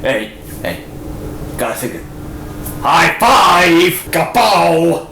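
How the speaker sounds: hammed-up girly chat with a buddy; excited gossiping woman. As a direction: gush like a friend at the shops. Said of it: "two women talking about shopping".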